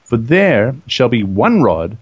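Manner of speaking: slow, measured reading aloud; scripture reading. Acted. Co-host reads the Lord's words to Moses, measured scripture reading. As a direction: read it out in deliberate phrases.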